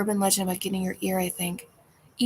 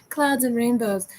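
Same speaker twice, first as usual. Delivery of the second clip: mock sweet; 3 semitones higher, 5 dB louder than usual. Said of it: "something nice".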